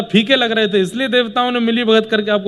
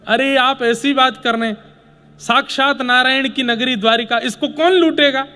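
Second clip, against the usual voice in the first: incredulous; 4 semitones higher than usual. Acted. Acted disbelief at Ganesh's excuse.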